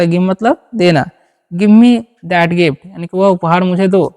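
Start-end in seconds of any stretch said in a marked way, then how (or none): 1.5-2.8 very slow, word by word, for learners; slow dictation pace; slow model sentence. Shown as a demonstration. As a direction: spell it out slowly for the class. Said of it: "teacher models English sentence".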